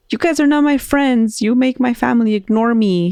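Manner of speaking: high-pitched mock child's yell; retold yell. Lonely boy yells at the duendes, mock yelling. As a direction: imitate a hurt boy yelling, no real volume. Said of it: "and he yelled".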